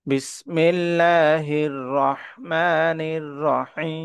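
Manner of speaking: melodic tajweed recitation, drawn out; slow sung Quranic recitation. Shown as a demonstration. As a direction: chant it like a reciter. Teacher recites Quran verse.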